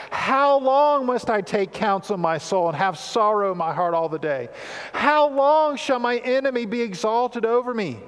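fervent, pleading psalm reading; rising pleas of a lament psalm; scripture reading. Acted. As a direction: read it as a lament cry to God. Reading the psalm aloud with feeling.

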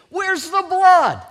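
loud, slow, high-pitched challenge; Moses confronting Aaron. Acted. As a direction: demand an answer, stretching each word. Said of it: "That's what Moses is saying to him".

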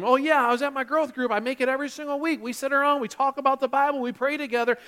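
playing the content small-group regular; mock group member.

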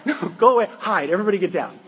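mock panic. Mock panic at devil at door.

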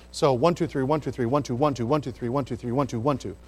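beats counted with stress on every "one"; counting the beat. Shown as a demonstration. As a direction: count it out, leaning on each "one". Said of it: "it's written in an uneven meter".

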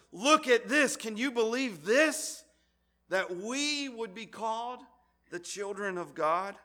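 high, loud, slow amazed exclaim; overwhelmed wonder. Retold or imitated. John marvelling at being called God's children, astonished and loud. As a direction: gasp it out in disbelief. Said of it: "And John says".

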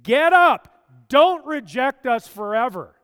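loud, high, pleading cry to God; desperate shouted prayer. Acted. Preacher voicing a desperate prayer, loud pleading shout. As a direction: shout the prayer at full force, begging. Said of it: "Didn't know you could pray like that".

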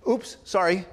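quick mock apology for a small mishap; as if you just stepped on a toe; light, brief oops-apology; accidental oops. Shown as a demonstration. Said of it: "when you step on somebody's toe".

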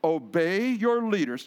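deliberate scripture reading; slow reading. Shown as a demonstration. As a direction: read it out with care, unhurried. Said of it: "let's read it again slowly".

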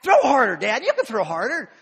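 put-on loud, pushy little boy yelling at dad; boy hollering for harder throws; kid shouting. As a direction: yell it like an impatient kid in the yard. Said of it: "he's like".

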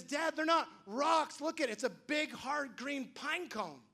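a hint of a boy's voice, slowing at the end; lightly voiced son. Son showing his dad the pine cone: slow, lightly voiced reveal. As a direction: let the boy reveal it's only a pine cone. Son's discovery, voiced by father.

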